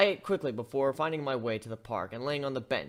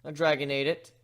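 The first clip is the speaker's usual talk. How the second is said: deadpan; 4 dB louder than usual. Acted. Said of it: "I deadpanned".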